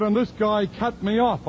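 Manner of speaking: lightly voiced church lady, earnest; voicing the woman. Woman complaining about traffic.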